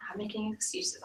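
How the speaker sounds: quiet echo. Shown as a demonstration. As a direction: let "not making excuses" fall away into a soft echo. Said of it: "quiet echo of phrase".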